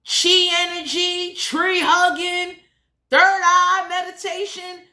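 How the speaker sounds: mocking list. Real, not acted.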